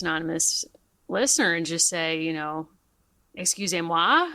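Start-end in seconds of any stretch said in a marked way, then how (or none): 3.3-4.3 hammed-up French; playing at speaking French; mock French. Hosts joking about their bad French, mock French. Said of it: "as they say in French".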